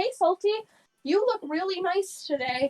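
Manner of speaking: slow, trembling, shaky, nervous voice. Retelling classmates nervously complimenting the speaker: imitating a shaky nervous voice. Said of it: "the shakiness in their voice".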